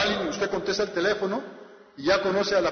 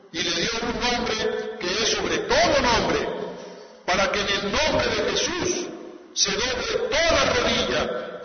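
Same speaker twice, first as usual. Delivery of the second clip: slow, solemn preaching, a touch louder; 2 semitones higher, 4 dB louder than usual. Acted. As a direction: proclaim it from the pulpit. Preacher exalting Christ, slow. (predicación solemne y pausada)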